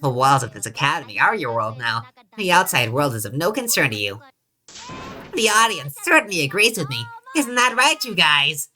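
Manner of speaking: a hint of a gloating mascot bear; lightly voiced Monokuma. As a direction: tease the captives, loosely in character.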